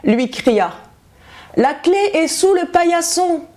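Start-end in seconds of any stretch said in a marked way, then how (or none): 1.6-3.4 put-on high, thin old woman calling out from bed; ailing grandmother calling to the door; sick grandmother. A narrator's reading. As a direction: call weakly from the sickbed. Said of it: "comme elle était malade".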